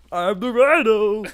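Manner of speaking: high, loud, slow laughing Rhino line; mock Rhino. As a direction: laugh through a grand announcement. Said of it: "He's just like".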